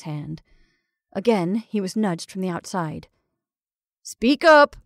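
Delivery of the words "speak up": urging. Acted. Prodded from outside.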